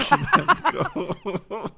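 Pokemon Go stretched out high and laughing, like Pokemans Go; mocking parents' Pokemon Go. Laughing at parents, mocks their Pokemon Go, drawn out and high. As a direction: parody the parents' Pokemon Go, slow and giggly. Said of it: "they said Poke-, they said Pokemon Go".

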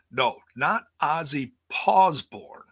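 Ozzy Pawsborn said with a playful P; playful Pawsborn correction; joke name. Acted. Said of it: "not my cat".

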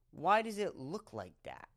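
usual speaking voice

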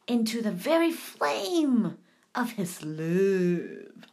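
solemn slow reading. Acted.

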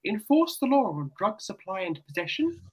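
put-on RP accent. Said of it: "I'm in best R P voice I can".

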